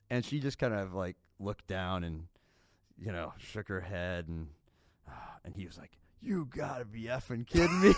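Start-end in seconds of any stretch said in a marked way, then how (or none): 6.2-7.9 imitated husband exploding, louder and higher; half-acted outburst of disbelief; mad. Husband learning his wife stole, mock furious disbelief. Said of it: "and he got so mad".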